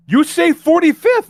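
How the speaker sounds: high, loud, slow mock question; mocking cab driver. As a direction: mimic the driver's dumb innocence. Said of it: "He's like".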